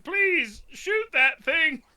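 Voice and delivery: high, slow robot voice; toy robot voice. Acted. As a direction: talk like a cheap robot. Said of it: "transferred his consciousness into a robot".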